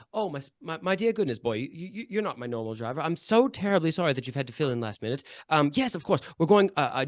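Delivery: softly spoken, lightly voiced kindly lady; kindly lady passenger. Lady leaning from carriage window to her new driver, kindly. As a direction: reassure the new driver, gently and politely. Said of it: "a very kindly expression pokes her head out".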